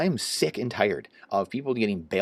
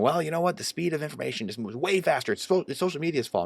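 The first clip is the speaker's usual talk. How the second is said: higher, mocking put-on voice of a smug insider; mocking old boy voice; 7 semitones higher than usual. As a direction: sneer at the excuse in a higher voice. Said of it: "so many good old boys in there just".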